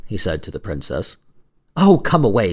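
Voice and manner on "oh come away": raised, pleading call; urgent cry. Acted. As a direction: urge him away with a mild cry. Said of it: "she cried".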